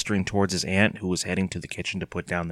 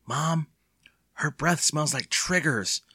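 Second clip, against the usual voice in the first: higher, slow whine to Mom; miserable; 6 semitones higher, slower than usual. A narrator's reading. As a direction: complain in misery. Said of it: "Evan exclaimed miserably".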